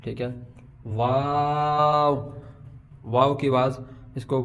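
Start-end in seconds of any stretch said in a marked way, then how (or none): 0.9-2.3 واو with lips rounded at both ends and a long middle vowel; slow, stretched واو. Shown as a demonstration. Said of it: "شروع میں بھی ہونٹ گول ہوں گے".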